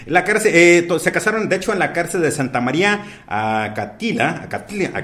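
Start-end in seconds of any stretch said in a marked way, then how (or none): none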